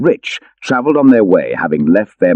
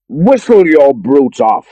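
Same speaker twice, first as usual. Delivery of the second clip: cried out; 7 semitones higher, 6 dB louder, slower than usual. Acted. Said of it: "he cried".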